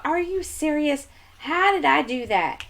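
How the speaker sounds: high-pitched are you serious; exasperated disbelief. Real, not acted. Mom at home realising she forgot the floss, high disbelief. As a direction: squeak it out in disbelief at yourself.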